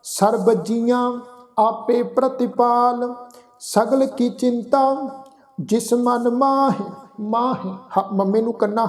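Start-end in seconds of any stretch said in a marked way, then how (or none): 0.1-6.8 slow, measured chanting of scripture; gurbani recitation. Acted. 7.2-7.7 ਮਾਹੇ with a nasalized final vowel; teacher's model of ਮਾਹੇ; nasal pronunciation. Shown as a demonstration. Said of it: "ਇੱਥੇ ਬਿੰਦੀ ਲਗਾ ਕੇ ਉਚਾਰਨ ਕਰਾਂਗੇ ਮਾਹੇ".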